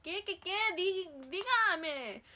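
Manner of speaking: high, loud, insistent mom voice; Mexican mother. Retold or imitated. Mexican mom questioning her hurting daughter, alarmed mother voice. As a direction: imitate an alarmed mom demanding answers. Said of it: "Mexican mother".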